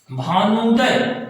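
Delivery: भानुदय said slowly, leaning on the long ऊ; slow demo word. Shown as a demonstration. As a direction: stretch भानुदय so the ऊ is heard. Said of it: "यहां देखेंगे बड़ा ऊ का उच्चारण". (भानुदय धीरे, ऊ पर ज़ोर देकर)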